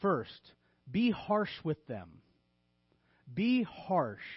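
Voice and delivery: emphatic mock instruction; deadpan, punchy tongue-in-cheek command; a little sarcastic. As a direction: deliver bad advice as earnest counsel. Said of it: "I'm being a little sarcastic".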